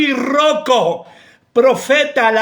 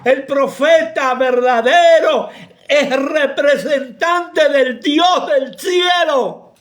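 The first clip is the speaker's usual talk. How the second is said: laughing proclamation. Real, not acted. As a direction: laugh while declaring it, half shouting. Preacher laughing through a declaration.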